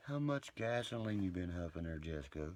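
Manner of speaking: mocking how much gasoline she's been huffing; mock gasp. Real, not acted. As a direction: gasp then sneer in disbelief. Mock gasp at wild claim.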